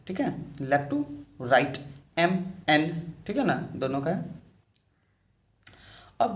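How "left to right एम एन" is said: slow tracing demo. Shown as a demonstration. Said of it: "इसका भी direction same है".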